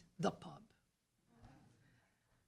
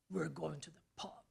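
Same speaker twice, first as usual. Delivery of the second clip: husband's voice; 6 semitones lower, 15 dB quieter than usual. Retold or imitated. Husband answers, pulling her along.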